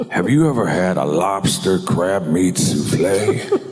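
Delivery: slowed lightly voiced Pacino, laughing; a hint of Pacino, amused; Pacino impression.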